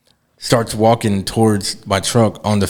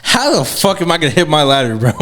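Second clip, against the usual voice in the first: retold pissed off; 5 semitones higher than usual. Driver retelling his answer about the ladder, pissed off. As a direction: replay the anger in a high, incredulous voice. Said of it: "I was pissed off".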